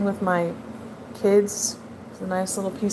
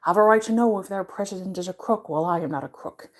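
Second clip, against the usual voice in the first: Nixon; faster than usual. Retold or imitated. Imitating the film's president addressing the people, lightly voiced Nixon impression. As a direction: slip lightly into a rambling politician's impression. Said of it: "they had Nixon doing his".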